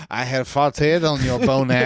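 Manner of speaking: can barely get it out for laughing; laughing through it. Real, not acted. Cracking himself up telling his cohost the joke, laughing.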